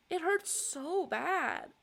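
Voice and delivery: high, slow, sobbing. Real, not acted. Vlogger crying to camera about the hurt, high slow sobbing. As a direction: sob it out slowly. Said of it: "This is a very interesting cry".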